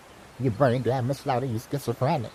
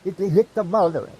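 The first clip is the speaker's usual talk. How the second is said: higher mock divine warning; mock voice of God; 5 semitones higher, 3 dB louder than usual. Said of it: "So God said".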